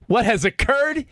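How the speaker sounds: slow, solemn quoted line; quoting Tatis Senior. Retold or imitated. Host quoting Tatis Senior to co-hosts, slow and solemn. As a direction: read it out like a grave official statement. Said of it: "To quote Tatis Senior".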